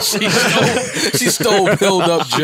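laughing. Real, not acted. Laughing repeat of the joke.

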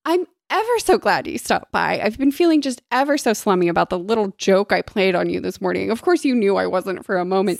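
lightly put-on fancy lady; mock-genteel storybook heroine; fanciest tone. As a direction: play it airily grand, covering up. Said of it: "said in her fanciest tone".

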